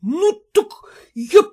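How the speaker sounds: high, loud furious husband; voiced husband shaking with rage; stammering with rage. A narrator's reading. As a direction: choke on your anger. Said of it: "заикаясь от гнева".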